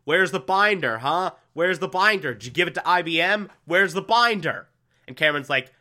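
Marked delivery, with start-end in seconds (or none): 0.0-4.7 mild mock confrontation. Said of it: "he confronts Cameron like".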